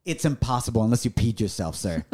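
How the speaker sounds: put-on low, dry New York accent. Nurse correcting a confused husband, light New York accent. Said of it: "With a New York accent".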